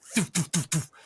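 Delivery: quick puffed "thoof" noises; imitated dart sounds. Game master imitating glowing darts hitting creatures, puffed sound effects. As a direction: voice darts whooshing and thudding.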